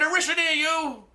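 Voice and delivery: put-on very high-pitched caricatured Chinese accent; stereotyped Chinese accent, pitched far up; mock Chinese accent. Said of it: "he said with a stereotypical Chinese accent".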